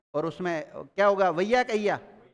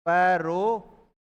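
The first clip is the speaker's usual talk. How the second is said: drawn-out, very slow dictation of परोसैया; 3 dB louder, much slower than usual. Shown as a demonstration. Teacher dictating a word to the class, very slowly. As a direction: stretch परोसैया out slowly so students can write it.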